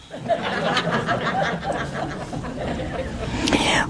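long breathy laugh. Real, not acted. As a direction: laugh it off, airy and high. Laughing at own Italian joke.

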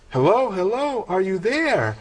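high, singled-out hellos, retold for comedy; calling down phone. Friend on phone to dazed caller, calling for a response. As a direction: call out as if the line went dead.

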